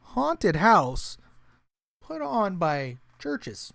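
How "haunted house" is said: "haunted" said with ironic air quotes, a bit louder. Shown as a demonstration. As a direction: lean on "haunted" as if it's in scare quotes. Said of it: "air quotes here".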